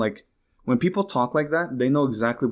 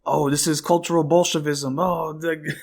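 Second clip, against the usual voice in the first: lightly voiced sneering pundit; a hint of a smug commentator, higher; mocking the YouTuber's talking point; mock far-right pundit; 4 semitones higher than usual. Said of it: "going straight to the fucking".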